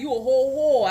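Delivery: put-on light Baltimore accent; a hint of Baltimore accent. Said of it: "we can say with the Baltimore accent".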